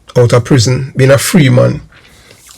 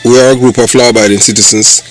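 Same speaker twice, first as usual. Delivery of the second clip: announcer intro. Acted. Channel intro read over music.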